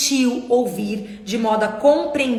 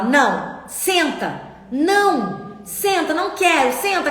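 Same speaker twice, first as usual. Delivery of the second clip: put-on father and child arguing; 4 semitones higher, slower than usual. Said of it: "aquela briga".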